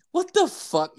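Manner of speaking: high-pitched retold disbelief; indignant protest. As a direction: jump up high in mock-outraged protest. Retold protest at being written up.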